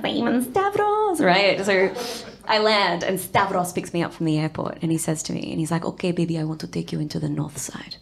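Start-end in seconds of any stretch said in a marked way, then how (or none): 5.8-8.0 softer, half-whispered; hushed. Retold or imitated. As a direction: lean in and murmur it. Imitating Stavros.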